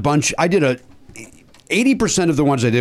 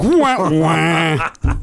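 sad trombone wah; 3 semitones higher than usual. Retold or imitated. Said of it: "And I'm like".

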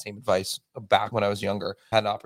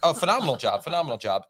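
sarcastic praise; 5 semitones higher than usual. Real, not acted. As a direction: gush it with irony.

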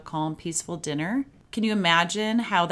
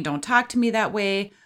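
a firm, louder telling-off; demanding parent; 4 dB louder than usual. Retold or imitated. Parent ordering an upset kid, demanding and louder. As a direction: snap it out like a bossy parent. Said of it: "demanding, controlling, dominating".

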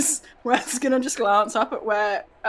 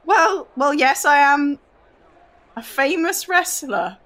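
pompous boastful wrestler; 4 semitones higher, 4 dB louder than usual. Acted. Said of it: "just say".

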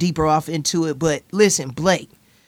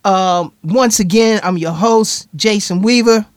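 upbeat host sign-off, slowed; podcast outro; slower than usual. Acted. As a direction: announce the show's close. Host's show outro.

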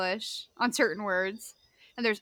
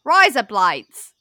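'Rise up lights' run together as Australian 'razor blades'; loud, stretched Australian 'Rise up lights'; Australian accent; 9 dB louder, slower than usual. Shown as a demonstration. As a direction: blend the words into an Australian accent. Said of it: "Listen for razor blades".

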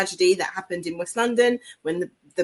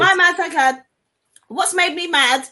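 laughing; 9 semitones higher, 4 dB louder than usual. Real, not acted. Still laughing.

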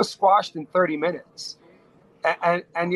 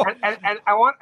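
laughing; 4 semitones higher than usual. Real, not acted. Laughing after the story about a rapper.

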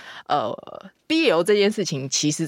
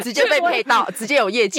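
laughing; 6 semitones higher, 4 dB louder than usual. Real, not acted. Joking about sponsorship.

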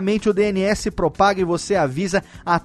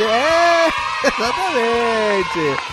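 laughing shout; 2 semitones higher, much slower than usual. Acted.

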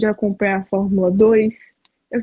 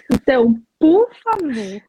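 pleading; 2 semitones higher than usual. Real, not acted. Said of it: "eu te peço com tudo na minha vida".

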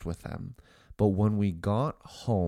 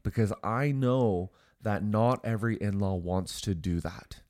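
sincere. Acted. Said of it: "hopefully you heard the sincerity in my voice".

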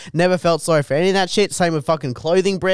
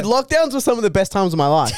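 laughing shout; 3 semitones higher, faster than usual. Real, not acted. Laughing shout about lockdowns.

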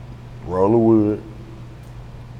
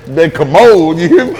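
words squeezed out mid-laugh; laughing through words; 6 semitones higher, 9 dB louder than usual. Real, not acted. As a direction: say it while cracking up. Laughing about the toilet.

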